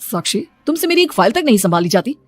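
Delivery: angry scolding. Acted. Husband scolding Sakshi over the lost file, angrily. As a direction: scold her for losing your file, building anger.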